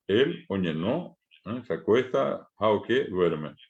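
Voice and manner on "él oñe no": "oñe" said very slowly, each sound clear; slow Guaraní demo. Shown as a demonstration. Teacher to students showing a Guaraní verb, very slow. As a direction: spell out "oñe" slowly for the class. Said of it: "una palabra como oque".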